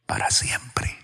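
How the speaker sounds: hushed whisper on "para siempre", barely voiced. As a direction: let "para siempre" fall away into a whisper. Sermon, repeating God's promise.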